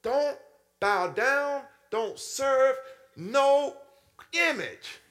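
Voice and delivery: God's voice laying down the law; God commanding. Retold or imitated. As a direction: thunder out the commandment. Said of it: "And God told us".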